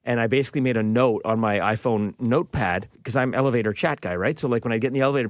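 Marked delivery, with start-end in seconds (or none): none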